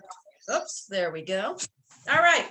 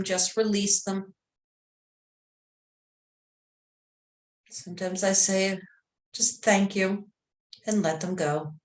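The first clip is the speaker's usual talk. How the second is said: calm meditation voice, long pauses between phrases; guided meditation. Real, not acted. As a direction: gently guide them into relaxation.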